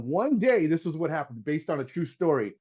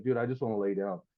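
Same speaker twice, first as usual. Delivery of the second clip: lower, softer, a touch of hangover weariness; mildly imitating a hungover friend, lower and softer; hungover groan; 5 semitones lower, 5 dB quieter than usual. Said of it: "remember, he's got a hangover".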